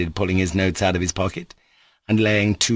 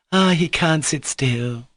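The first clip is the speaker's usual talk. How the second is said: contemptuous; 8 semitones higher, slower than usual. A narrator's reading. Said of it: "looking at him contemptuously".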